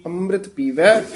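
ਅੰਮ੍ਰਿਤ ਪੀਵੈ as one phrase, then stop; pause after phrase. Shown as a demonstration. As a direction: lift the end of ਪੀਵੈ and pause there. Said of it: "ਇੱਥੇ ਵਿਸਰਾਮ".

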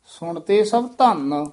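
ਸੁਣਤੇ ਸਭ ਧੰਨ as one phrase, then pause; rest after ਧੰਨ. Shown as a demonstration. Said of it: "ਇੱਥੇ ਵਿਸਰਾਮ ਹੈ".

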